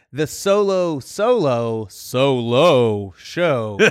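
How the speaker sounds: slow, drawn-out superhero rasp; hammed-up Batman show title. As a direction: growl the title slowly, dragging every word. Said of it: "I have to talk like this".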